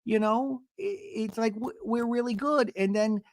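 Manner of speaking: imitating Gina. Gina confiding in Emily, a high mock whine. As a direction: lift it up high like a sad whine. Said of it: "Gina tells Emily".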